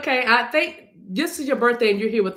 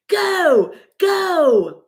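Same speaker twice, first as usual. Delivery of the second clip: hype shout; 5 semitones higher, 6 dB louder than usual. Acted. Shouted hype urging action.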